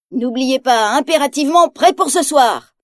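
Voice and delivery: lightly voiced villain warning; mild threat. Ratigan warning the captive inventor, mildly menacing. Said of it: "menace Ratigan".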